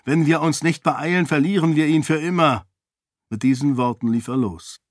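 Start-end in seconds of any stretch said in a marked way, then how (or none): 0.0-2.7 higher, pressing hurry; urgent warning; urging. Acted. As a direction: keep urging them on. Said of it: "drängte Raoden".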